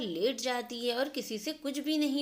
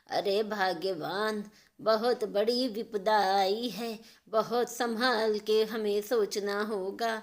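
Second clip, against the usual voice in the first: put-on worried old father; 2 semitones lower than usual. Father telling his wife a big trouble has come, slow and grave. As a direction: weigh each word like a troubled dad.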